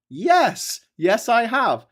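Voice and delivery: high, loud, giddy squeal; acted hysterical high-pitched reply; imitated giddy giggling. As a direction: blurt it out as if fighting giggles. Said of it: "I'm laughing too much".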